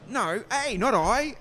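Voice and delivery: high, loud mock correction; retold correcting. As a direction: push back high and loud, imitating an argument. Retold argument, agent's correction.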